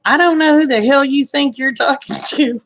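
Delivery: half-hearted mock anger; retold telling-off. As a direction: play back the challenge to her husband. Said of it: "I said".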